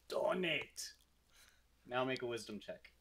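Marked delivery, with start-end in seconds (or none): 0.1-0.9 lightly voiced kobold asking for alms; a slightly higher creature voice; kobold begging. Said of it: "and says".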